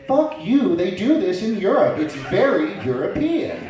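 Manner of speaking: high, loud defensive retort; mock indignant. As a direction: snap back in hammed-up snooty defiance, drawing out the ending. Acted defensive retort to nosy question.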